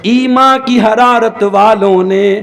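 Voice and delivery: slow, measured recital of a couplet; slow Urdu poetry recital over music; poem recitation. Acted. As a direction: recite the verse slowly, with weight.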